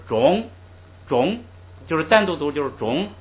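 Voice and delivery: "中" started high and rising; high second tone. Shown as a demonstration. Teacher showing students the high second tone, started high. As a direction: sing "中" up high, not from the bottom. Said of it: "要读成高的".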